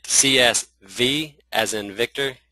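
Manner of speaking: "V" said slowly and distinctly; careful clarification. Real, not acted. Clearing up a misheard letter for webinar listeners, careful clarification. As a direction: spell out "C S V" slowly, setting the V apart. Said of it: "that's probably my southern accent".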